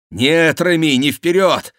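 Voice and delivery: high, loud counter-order; urgent command. Acted. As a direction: call out over the fight, high. Бюсси командует в бою. (громкий настойчивый приказ)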